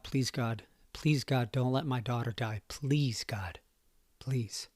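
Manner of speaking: pleading softly, fading to a whisper; desperate prayer. Retold or imitated. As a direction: beg God under your breath.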